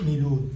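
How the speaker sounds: مليون pronounced "milun"; Pashto pronunciation. Shown as a demonstration. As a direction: say مليون with "mi-" and a plain "-lun". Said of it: "نلفظ".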